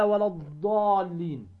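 "ولا الضالين" slow, with the long madd on الضالين drawn out; Quranic recitation. Shown as a demonstration. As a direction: recite "ولا الضالين" and stretch the alif before the doubled lam. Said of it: "مثل قوله تعالى". (ترتيل "ولا الضالين" بمد الألف مدا طويلا)

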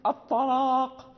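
slow "الطلاق", light "a" before the heavy ṭa; thin hamza. Shown as a demonstration. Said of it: "إذا جاء بعدها حرف مطبق".

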